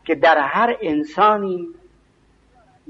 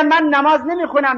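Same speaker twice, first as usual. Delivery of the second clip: raised-pitch mock voice of a man who skips prayer; higher imitation of a reluctant worshipper; voicing a non-praying man; 10 semitones higher, 3 dB louder than usual. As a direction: play the excuse-maker, pitched up and defensive. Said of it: "اون یکی میگه".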